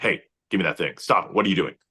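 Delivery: fast, straightforward, authoritative cop voice. Actor demonstrating how they played a highway patrol officer, authoritative cop voice. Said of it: "like you're getting a speeding ticket".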